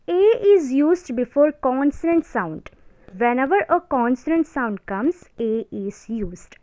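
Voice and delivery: slow, word-by-word dictation for notes. Shown as a demonstration. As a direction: read the rule out slowly so students can write. Dictating grammar rule slowly.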